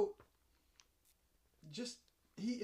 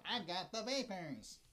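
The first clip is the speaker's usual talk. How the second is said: slow, swooning Wally voice; fainting swoon voice; 3 semitones higher, slower than usual. Retold or imitated. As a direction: play a fainting Southern belle. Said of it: "Wally goes".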